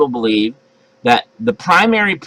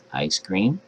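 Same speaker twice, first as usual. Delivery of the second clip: under your breath; 8 semitones lower, 9 dB quieter than usual. Shown as a demonstration. Parent testing kids' hearing, murmured under the breath. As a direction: murmur it low and soft. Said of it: "under your breath say".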